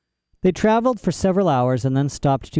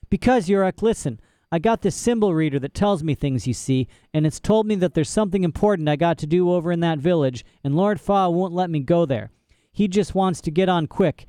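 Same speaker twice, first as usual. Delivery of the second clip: put-on a girl's voice, a little higher, earnest; girl asking the bear for help; lightly voiced Lyra; 5 semitones higher than usual. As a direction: coax the bear, hopeful and earnest.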